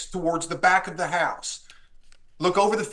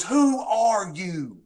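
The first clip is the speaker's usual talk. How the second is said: retold challenge; 3 semitones higher, much slower than usual. Retelling gunman's challenge.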